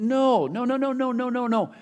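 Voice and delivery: preacher pounding out no; emphatic no. Real, not acted. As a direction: shut the idea down hard. Emphatic denial from the pulpit.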